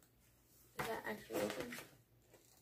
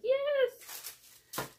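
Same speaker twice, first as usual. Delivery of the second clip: much higher, loud triumphant cheer; excited yes; 7 dB louder than usual. Retold or imitated. Unboxer showing her thrill after two items, shouting yes. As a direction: cheer like you just won. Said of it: "I'm already like".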